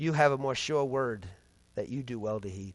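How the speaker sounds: mock very low, soft, deeply disappointed tone. Recalling words that came into their mind half asleep, speaker retells them in a very disappointed voice. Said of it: "it came in a very disappointed voice".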